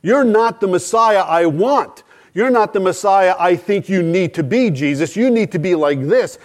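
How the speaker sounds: mildly hammed-up, emphatic protest; Peter. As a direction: lightly play a disciple correcting his master. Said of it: "did not fit into Peter's idea".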